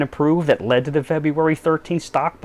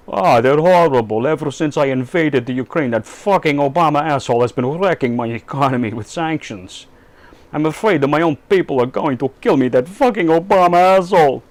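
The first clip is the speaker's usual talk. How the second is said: Putin voice. Acted. Putin voiced in phone skit.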